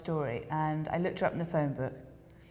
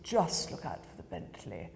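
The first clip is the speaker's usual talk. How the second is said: great aunt's voice; 9 semitones lower, 5 dB quieter than usual. Retold or imitated. Great aunt on the phone, giving directions.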